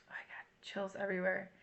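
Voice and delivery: breathy whisper, barely voiced; real hushed whisper of awe. Real, not acted. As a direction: whisper it, awed by chills. Whispers, moved by lyrics.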